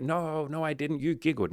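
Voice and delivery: high, playful protest; mock girlish denial. Date denying she broke the silence, high playful protest. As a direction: deny it like a teasing girlfriend. Date denies, blames him.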